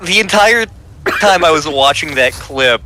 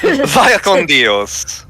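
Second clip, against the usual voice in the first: drawn out, very slow goodbye; slow solemn farewell; much slower than usual. Pretend. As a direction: stretch each word in a solemn send-off.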